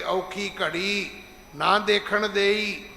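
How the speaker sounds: slow, confident recitation, ਦੇਈ as a sure statement; ਭਰੋਸੇ ਨਾਲ, ਹੌਲੀ ਪਾਠ; read with trust. Shown as a demonstration. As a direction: recite it slowly as calm faith, not a plea. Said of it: "ਭਰੋਸੇ ਦੇ ਤੌਰ ਤੇ ਪੜਨਾ ਹੈ".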